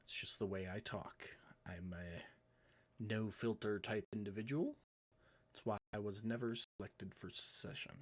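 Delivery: a hint of a courtly cat charming them; understated Puss in Boots charm; Puss in Boots manner. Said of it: "A very Puss in Boots type demeanor".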